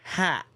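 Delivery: "Hat." said alone after a pause; separated word. Shown as a demonstration. Streamer finishes reading the split-up name, pausing before it. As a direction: drop the word in by itself after a gap. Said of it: "had to kinda separate those words".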